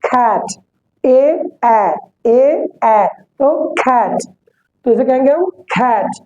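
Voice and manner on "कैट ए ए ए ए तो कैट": ए drawn out slowly with the mouth wide; wide a demo. Shown as a demonstration. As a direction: open wide on ए in कैट. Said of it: "मुंह थोड़ा सा खुलेगा".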